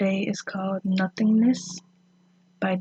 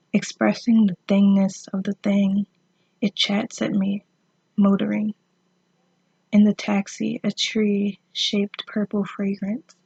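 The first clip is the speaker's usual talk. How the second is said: measured poetry reading with long pauses between phrases; poem reading; 3 dB louder than usual. Acted. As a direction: read the poem in short, deliberate phrases, slightly projected. Reads a poem aloud.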